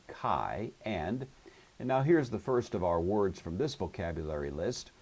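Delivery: ordinary talk, nothing marked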